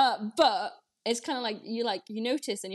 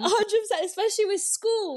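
emphatic agreement; 11 semitones higher, 6 dB louder than usual. Real, not acted. Jumps in agreeing with friend.

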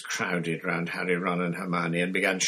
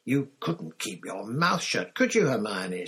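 annoyed Ron. Acted. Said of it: "said Ron angrily".

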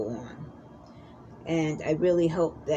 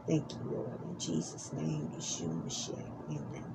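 fading, hushed closing prayer. Acted. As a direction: pray it, trailing to a hush.

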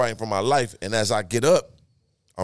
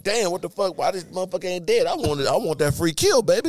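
mock frustration; 7 semitones higher than usual. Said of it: "I'm mad as fuck".

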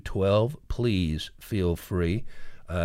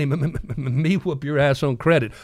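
stutter, then hit the threat; stammering; 5 semitones higher than usual. Retold or imitated. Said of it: "he stammered".

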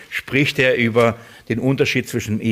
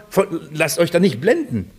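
ordinary talk, nothing marked

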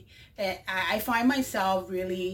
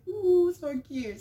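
higher, slow cooing; cooing at babies; 9 semitones higher, 4 dB louder, slower than usual. Retold or imitated. Vlogger to a baby alligator, cooing. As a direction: gush over a baby animal. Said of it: "I say".

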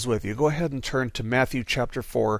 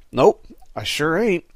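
slow, smiling drawl; unbothered, with a slight smile; smug calm reply; 3 semitones higher, 3 dB louder than usual. Acted. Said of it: "gave a slight smile, he raised an eyebrow".

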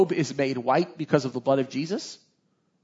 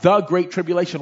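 "the" leaned on before "great tribulation"; emphatic "the" in "the great tribulation"; stress on "the"; 3 semitones higher, 5 dB louder than usual. Shown as a demonstration. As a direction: give the article "the" extra weight. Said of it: "and that is emphasized here".

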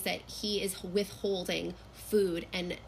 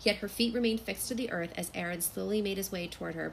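measured, softer story reading; novel read aloud; 4 dB quieter than usual. Acted. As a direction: read the passage aloud with quiet drama. Reads a passage from the novel.

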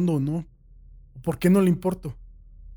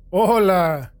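louder, chirpy greeting; cheerful hello; 4 semitones higher, 8 dB louder than usual. A narrator's reading. Captor answers the prisoner through the vent, cheerful greeting. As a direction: greet him brightly, as if nothing is wrong. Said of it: "en un tono alegre".

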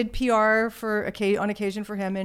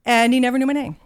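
whisper; 4 dB louder, faster than usual. Real, not acted. Deflated end of awkward story.

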